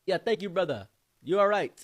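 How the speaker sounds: high, loud friendly reply; mock cheerful reply. The man thanks the friend, mocked high and loud.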